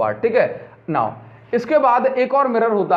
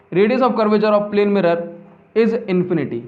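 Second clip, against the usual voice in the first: slow, evenly spaced dictation; much slower than usual. Shown as a demonstration. Teacher dictating the definition, slow and even. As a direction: read it out slowly for copying. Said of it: "लिखो इस point को".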